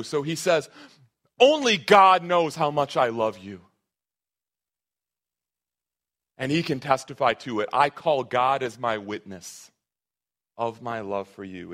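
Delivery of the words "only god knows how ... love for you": emphatic paraphrase. Shown as a demonstration. Pastor voicing Paul's oath to the church, emphatic and loud. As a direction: swear it with God as witness. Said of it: "more emphatically say this is true".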